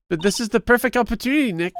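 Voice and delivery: lightly voiced superhero; Marvel voice. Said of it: "That's your Marvel voice".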